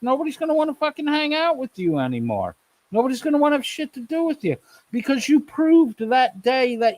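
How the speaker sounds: high-pitched, heated tirade; real indignant rant, pitched high without shouting; angry scolding. Real, not acted.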